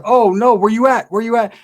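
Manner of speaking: high, urgent "where you at"; panicked. Retold or imitated. Husband panicking on the phone with his wife, high and urgent. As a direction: sound the alarm, rushing the question.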